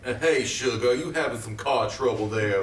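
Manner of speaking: a hint of a southern good old boy; mild Southern twang offering help; southern accent. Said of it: "in a southern accent".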